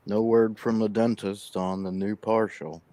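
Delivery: slight lisp from missing teeth. Real, not acted. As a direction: talk with a gap in front teeth. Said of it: "like, lisping a little bit".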